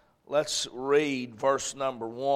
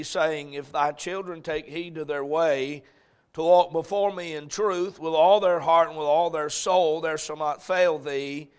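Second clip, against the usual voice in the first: solemn Bible reading; scripture reading; 3 dB louder than usual. Acted. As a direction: read the verses with weight. Reads scripture aloud.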